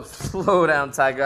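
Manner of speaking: teasing. Acted. Damon teasing his friend, slow and laughing. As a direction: draw it out slowly and playfully.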